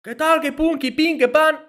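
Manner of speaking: high mock gibberish rant; imitating the junkie's ranting; junkie babble. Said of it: "no sé qué más decía".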